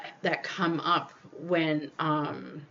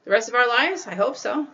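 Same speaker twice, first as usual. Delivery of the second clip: hesitant, higher, half-hearted; unsure; 5 semitones higher than usual. Retold or imitated. Partner asked about the rest of their lives, hesitant and unsure. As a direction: sound unconvinced about forever. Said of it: "just the person to go".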